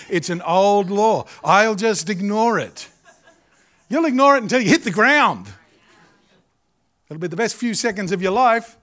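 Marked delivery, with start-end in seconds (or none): 0.1-2.9 mock laughing denial. Mocking person falling, laughing.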